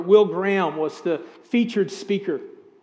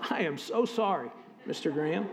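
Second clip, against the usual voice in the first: softer, abashed apology; choked apology; 4 semitones lower, 10 dB quieter than usual. Retold or imitated. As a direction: barely get the words out, embarrassed. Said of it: "my throat went dry".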